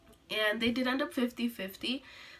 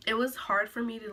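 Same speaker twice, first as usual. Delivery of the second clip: airy, unvoiced, short of breath; breathless whisper. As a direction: whisper as if gasping for air. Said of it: "when I say I ran out of breath".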